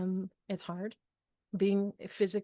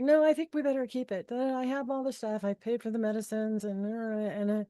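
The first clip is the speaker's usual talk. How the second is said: husband insisting. Retold or imitated. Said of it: "And he was like".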